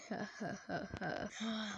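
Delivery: low, quiet evil laugh; villain chuckle. Pretend. Imposter after vowing to kill all, quiet evil chuckle. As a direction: chuckle softly and low in mock menace.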